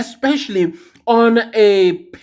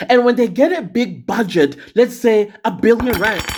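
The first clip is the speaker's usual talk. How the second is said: mouth full; 3 semitones higher than usual. Real, not acted. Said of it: "I was eating yogurt".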